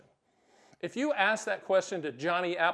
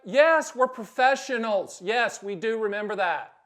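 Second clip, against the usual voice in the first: proud retort; 2 semitones higher, 6 dB louder than usual. Real, not acted. Advisor answers client's doubt proudly, louder and slower. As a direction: answer with pride, deliberately.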